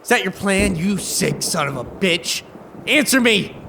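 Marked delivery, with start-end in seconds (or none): 2.9-3.6 raised accusing demand; angry demand. Acted. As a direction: demand an answer. Man accuses rescuer of poisoning.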